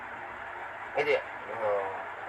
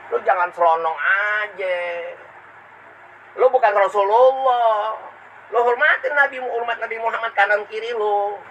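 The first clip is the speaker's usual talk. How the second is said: stern scolding; 4 semitones higher than usual. Acted. Preacher scolds a rude listener.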